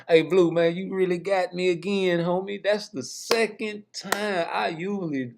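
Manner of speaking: falsetto, held far above normal speech; high-pitched mock complaint. Host tells Blue he got him again, high falsetto. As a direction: stay up in the singing register, stretching the last words.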